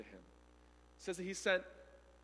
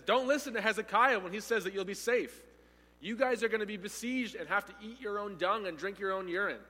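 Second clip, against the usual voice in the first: higher, louder gloating threats; mockery; 4 semitones higher, 4 dB louder than usual. Assyrian officer threatening Jerusalem, loud gloating mockery. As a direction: bellow the threats like a cruel conqueror. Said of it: "he ends this mockery".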